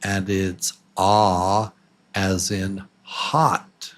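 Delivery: "ah" drawn out slowly as in "hot"; slow open "ah" sound for "hot"; short O demo. Shown as a demonstration. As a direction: stretch the "ah" slowly, open mouth. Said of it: "The one on the right is the short O".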